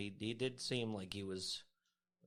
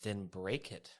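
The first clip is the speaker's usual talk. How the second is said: sarcastic; slower than usual. Acted.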